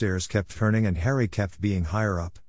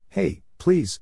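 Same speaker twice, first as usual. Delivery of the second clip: high, bright cheerful call; a merry, higher headmaster brushing off worry; 9 semitones higher, 3 dB louder than usual. A narrator's reading. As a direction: toss it off cheerfully, as if nothing is wrong. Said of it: "said Dumbledore cheerfully".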